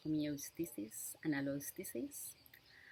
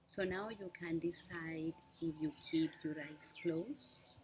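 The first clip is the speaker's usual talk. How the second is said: unhurried meditation guide with long pauses; measured instructions in short, spaced-out phrases; guided meditation. Real, not acted. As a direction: guide listeners gently through breath awareness, leaving lots of space. Leads a breathing meditation.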